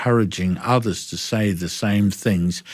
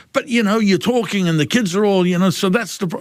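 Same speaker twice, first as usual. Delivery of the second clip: mock board member; 9 semitones higher than usual. Board voiced in retelling.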